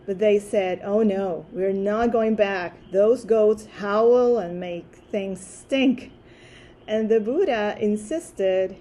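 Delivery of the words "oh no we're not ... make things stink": louder, mock-alarmed refusal; voicing monks who won't budge; acted protest. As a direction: push back loudly, stretching out the complaint.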